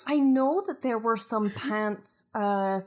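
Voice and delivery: light Scottish lilt; Scottish accent. Acted. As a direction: talk in a gentle Scottish accent. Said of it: "this is a very Scottish Beth".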